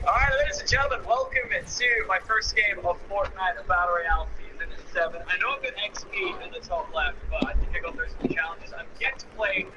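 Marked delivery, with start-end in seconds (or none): 0.1-5.2 loud, bright channel-opening announcement; youtuber intro. Acted. Gamer opening his video, in a loud host voice. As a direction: greet the viewers like a show host.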